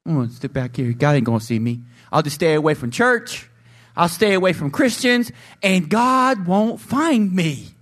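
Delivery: sly, mock-sneaky mutter; sinner hiding from God. Guilty believer talking himself into skipping church, sly. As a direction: play the guilty one hiding away. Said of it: "you're gonna be like".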